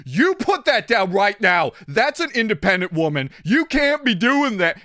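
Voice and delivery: high, loud mock scolding; imitating scolding woman. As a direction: butt in like an outraged bystander. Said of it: "And this woman went".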